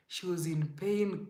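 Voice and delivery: subdued echo of the outburst; quiet repeat. Real, not acted. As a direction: let it sink back down.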